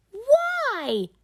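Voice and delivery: put-on high breathy toddler question; tiny whispered why. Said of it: "asks George".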